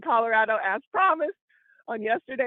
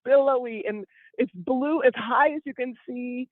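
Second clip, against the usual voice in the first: slow scenic description; 3 semitones lower than usual. Acted. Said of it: "let me describe it for the people".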